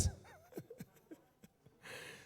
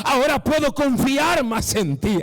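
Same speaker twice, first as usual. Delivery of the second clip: loud, higher preached line at normal pace; preached quote of God; 4 semitones higher, 3 dB louder than usual. Acted. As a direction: proclaim God's words at full voice. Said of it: "Dios dice".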